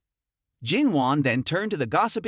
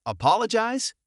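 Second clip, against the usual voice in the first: furious retort; 6 semitones higher than usual. A narrator's reading. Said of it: "still furious".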